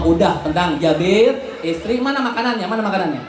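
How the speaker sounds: a hint of a calm leader; calm reassurance.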